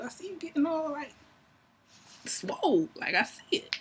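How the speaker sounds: half-whispered, teasing swole; flirty whisper. Retold or imitated. Flirting with him about his muscles, whispered. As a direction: whisper it like a secret compliment.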